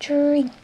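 "Drink" said slowly and clearly for learners; "Drink" in English; repeat after me. Shown as a demonstration. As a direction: model the word "Drink" clearly. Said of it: "Fácil, ¿verdad?".

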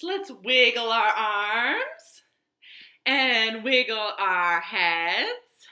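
put-on sing-song, coaxing the children to wiggle; playful stretch-along. Teacher leading children in a stretch, sing-song. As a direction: lead the wiggles like a kindergarten teacher.

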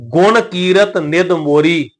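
slow verse, ਮੋਰੀ ending on oral ee; un-nasalised ਮੋਰੀ. Shown as a demonstration. Teacher reading scripture to congregation, ਮੋਰੀ without nasal. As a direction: recite deliberately, no nasal on the end of ਮੋਰੀ. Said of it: "ਬਿੰਦੀ ਤੋਂ ਬਿਨਾਂ ਉਚਾਰਨ ਕਰਾਂਗੇ".

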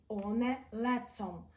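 «оне лецом» slowly with a hard ц; teacher shows the hard ц; hard Polish sounds. Shown as a demonstration. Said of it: "так само говоримо".

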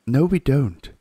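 put-on quick young girl's denial; Susan's voice. Susan contradicting Mr Beaver, girl voice.

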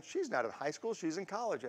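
soft, understated imitation of a Southern accent; light Southern accent. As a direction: toss off a mild Southern lilt quietly. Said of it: "her kind of Southern accent".

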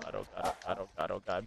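breathy whispered panic; panicked whisper. Real, not acted. Player panics under her breath during firefight. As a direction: whisper frantically so you're not heard.

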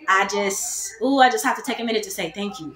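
real tears pulling the voice down to a hush; tearful thanks. Real, not acted. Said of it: "who I'm trying not to cry here".

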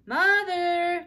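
high, loud alarmed call; girl calling her mother urgently; cry out. A narrator's reading. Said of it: "cried Beezus".

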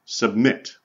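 "submit" stressed as sub-MIT; stress on last syllable. Shown as a demonstration. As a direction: isolate "submit" and press on MIT. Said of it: "the stress is on".

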